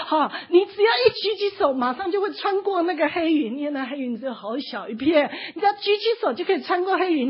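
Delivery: high, loud urging call. Retold or imitated. Servant calling to the struggling man below. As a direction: keep shouting the promise down. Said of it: "他就这样一直跟他喊".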